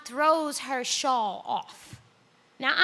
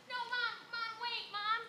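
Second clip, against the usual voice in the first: put-on much higher, soft childish whine; seven-year-old whine; 9 dB quieter than usual. Daughter turned seven again, softly whining at her undressing mother. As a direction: whine like a little girl tugging at her mom. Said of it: "I turn seven".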